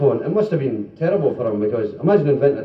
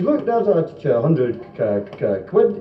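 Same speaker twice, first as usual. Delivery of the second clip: stammering punter; slower than usual. Acted. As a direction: stick on T and C. Stuttering exchange over a bet.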